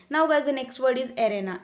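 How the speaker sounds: very slow, each word spaced out; slow word announcement. Shown as a demonstration. Teacher announcing the next word to students, slow and deliberate. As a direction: announce the new word slowly and clearly.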